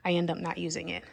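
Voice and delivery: out of breath, pregnant; winded between words; gasping for air. Real, not acted. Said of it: "I apologize that I'm so out of breath".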